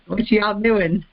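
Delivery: playful Southern twang; Southern accent. Retold or imitated. Joking about her own accent after moving north, Southern twang. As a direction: slip into a folksy Southern drawl. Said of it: "me and my Southern accent".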